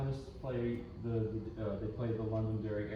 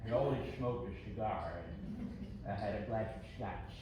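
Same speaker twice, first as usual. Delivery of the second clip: a hint of an old-school violin teacher, unhurried; imitating Aaron Rosan. Teen student mimicking his violin teacher in a lightly voiced impression. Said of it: "he talked like this".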